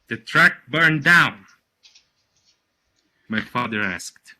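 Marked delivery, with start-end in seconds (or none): 0.1-1.5 loud, higher-pitched disbelief; aghast question. Acted. Father asking Caruso about the truck, aghast. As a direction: burst out with the appalled question.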